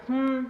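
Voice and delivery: pointed "hmm" in place of words; curt hum. Retold or imitated. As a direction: imitate a mother's displeased hum. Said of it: "like that".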